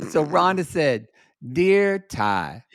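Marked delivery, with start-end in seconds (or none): 1.5-2.6 drawn-out mock-solemn letter opening; lightly theatrical letter reading; very dramatic. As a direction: read it out like a proclamation. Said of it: "In this very dramatic fashion".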